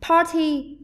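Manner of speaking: "Party" with stress on the first syllable; strong, high PAR, weaker ending in "Party"; teacher's demo of "Party", beat up front. Shown as a demonstration. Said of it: "có trọng âm rơi vào âm tiết thứ nhất".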